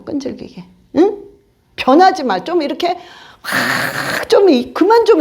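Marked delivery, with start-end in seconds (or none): 0.0-0.6 "끈질기게" repeated much softer, falling away; a soft, falling afterthought on "끈질기게"; quiet echo. Shown as a demonstration. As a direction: let "끈질기게" drop to a soft falling murmur. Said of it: "끈질기게 좀 하라고".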